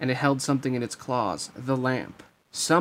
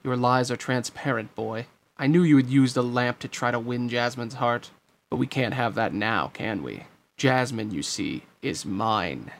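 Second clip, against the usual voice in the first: crowing villain. Acted. Jafar claims Jasmine from Aladdin, crowing smugly. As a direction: crow over a beaten rival, with relish. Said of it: "he crowed".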